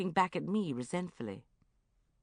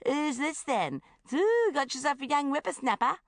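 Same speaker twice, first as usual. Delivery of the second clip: much higher, loud mocking bellow; bellowing tease; 10 semitones higher, 6 dB louder than usual. A narrator's reading. Bridget planning to tease Uncle Geoffrey, loud bellowing. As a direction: bellow it across the pub to embarrass him. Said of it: "go over and bellow".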